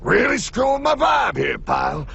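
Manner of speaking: irritated complaint. Acted. Mentor annoyed at interruption.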